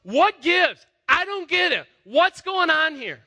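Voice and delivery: a cast-out servant demanding answers; bewildered protest. Acted. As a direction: Hagar crying out to God, loud and confused. Voicing Hagar's bewildered protest.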